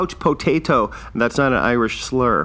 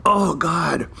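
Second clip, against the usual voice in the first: whispered, spent from laughing; breathless after laughing; 3 semitones higher than usual. Real, not acted. Recovering from his own laughing fit, breathless whisper. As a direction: gasp it out, still laughing.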